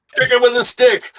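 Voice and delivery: high-pitched mock child's voice; playful kid. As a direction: chime in like an excited kid at play. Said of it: "just like kids would".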